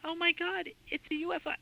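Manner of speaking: reliving the panic with a high, strained cry; retold frightened scream. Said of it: "and I'm screaming".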